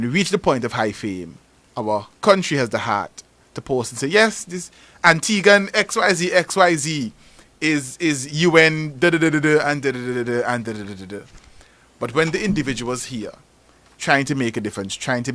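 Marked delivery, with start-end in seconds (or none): 4.1-11.2 mock official boast. Mocking government boasting post.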